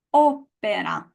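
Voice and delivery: opera with an unaspirated p; no puff of air on the p in opera; Italian opera. Shown as a demonstration. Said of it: "pronounce after me".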